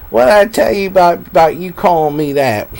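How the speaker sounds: lightly voiced scolding mother; mom voice, high and sharp. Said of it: "she'd be like".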